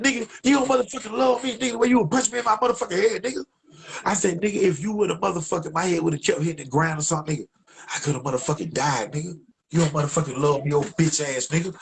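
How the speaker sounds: high, fast furious rant; angry rant. Retold or imitated. Tree telling off his friend, high and furious.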